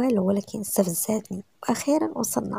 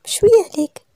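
higher and louder, mildly acted protest; indignant retort; 11 semitones higher, 8 dB louder than usual. A narrator's reading. Wife tells husband to stop shouting at her, indignant. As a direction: push back with a sudden raised voice. Snapping back at his shouting.

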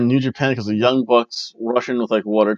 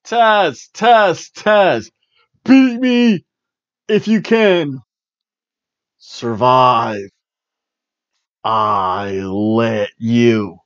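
lightly imitating Taz; much slower than usual. Imitating Taz's catchphrase.

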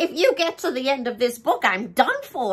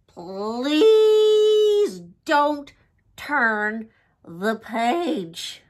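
crying plea; much slower than usual. Acted. Begging the reader not to turn the page, crying. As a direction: beg through tears not to turn it.

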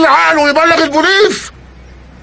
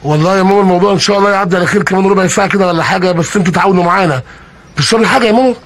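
sweet-talking; 7 semitones lower than usual. Acted. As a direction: soothe her gently, like a dutiful son. Robber sweet-talks old mother.

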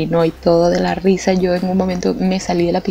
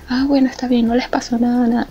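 relieved mother; 5 semitones higher than usual. Retold or imitated. Mother accepting the cover story.

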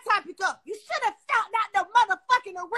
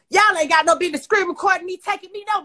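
much louder, hammering each word; loud angry outburst; 9 dB louder than usual. Real, not acted. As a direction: blast it at the people who recorded her. Angry rant at people recording her.

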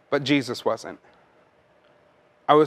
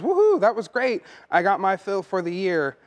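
high, gushing woohoo, lightly hammed; playful send-up of a shallow Easter cheer; mock holiday churchgoer; 5 semitones higher than usual. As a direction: toss off a cheery woohoo like a once-a-year visitor. Mocking a holiday-only churchgoer.

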